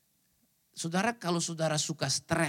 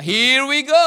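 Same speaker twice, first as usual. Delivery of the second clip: loud, higher exasperated groan of a line; weary here we go; 6 semitones higher, 13 dB louder, much slower than usual. Retold or imitated. Preacher mimicking his own stressed reply, loud and exasperated. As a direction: sigh it out like you're bracing for trouble. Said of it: "saya bilang".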